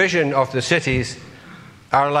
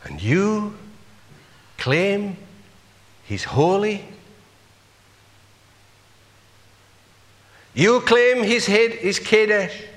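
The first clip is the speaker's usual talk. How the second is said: incredulous challenge; 6 semitones higher than usual. Pretend. Challenging an imagined claim.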